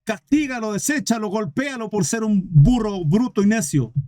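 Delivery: lightly voiced indignant tiger appeal; annoyed tiger. Tiger complaining to the king about the donkey, annoyed appeal. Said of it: "Molesto el tigre con este burro bruto".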